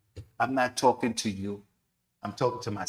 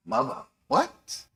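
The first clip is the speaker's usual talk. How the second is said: high, slow, shocked question; horrified surprise; 11 semitones higher, slower than usual. Acted. Young man answering the Prophet, horrified. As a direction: recoil in disbelief.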